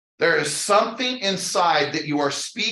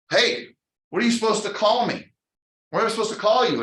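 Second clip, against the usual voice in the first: Moses asking God; 5 semitones higher, faster than usual. Retold or imitated. Acting Moses questioning God.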